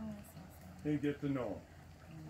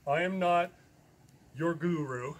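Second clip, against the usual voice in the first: louder I am not; emphatic denial; 5 dB louder than usual. Real, not acted. Telling the audience he is no guru, loud. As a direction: hit I am not firmly. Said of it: "emphasis on the word not".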